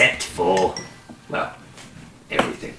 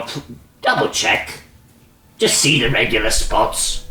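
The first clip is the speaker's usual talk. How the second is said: much higher and louder insistent crone; urgent crone; 6 semitones higher, 5 dB louder than usual. Acted. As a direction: press him hard, high and urgent. Crone urges him to check.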